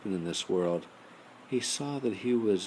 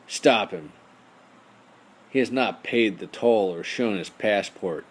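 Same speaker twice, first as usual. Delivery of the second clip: loud rat calling after him; shouting; 7 dB louder than usual. Acted. Rat shouting after the tin soldier. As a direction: yell it after the fleeing boat.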